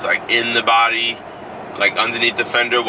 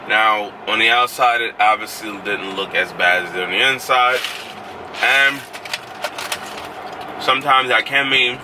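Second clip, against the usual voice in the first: ice in mouth. Real, not acted. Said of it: "disrespectful chewing the ice".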